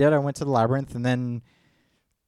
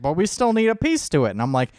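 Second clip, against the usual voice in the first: higher, louder eager protest; excited insisting; 8 semitones higher, 6 dB louder than usual. Retold or imitated. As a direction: insist eagerly we already made it. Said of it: "it was like".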